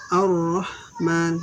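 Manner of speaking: Ar-Rahman with the r held doubled, slow. Shown as a demonstration. Teacher repeating the right reading, slow doubled r. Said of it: "Kita harus baca".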